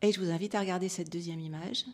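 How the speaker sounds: calm, measured relaxation guidance; guided meditation. Real, not acted. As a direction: gently lead listeners inward, softening as you go. Guides audience through closing eyes. (méditation guidée, voix calme et posée)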